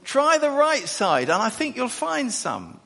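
high, loud shouted tip from the shore; calling out. Retold or imitated. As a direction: call advice across the water. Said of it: "And he says".

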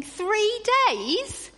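high, loud, incredulous rant at the Israelites; a congregation fed up with the Israelites, exasperated; exasperated outburst. Retold or imitated. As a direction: huff it out like you can't believe them. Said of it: "we're all thinking".

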